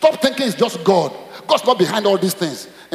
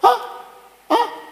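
mock surprise; much slower than usual. Pastor teasing the congregation.

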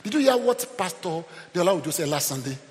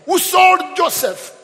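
high, slow, booming delivery; forceful declaiming; 13 semitones higher, 10 dB louder, much slower than usual. Real, not acted. Preacher on Judah who sold Joseph, high and loud declaiming. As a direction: ring it out to the whole church.

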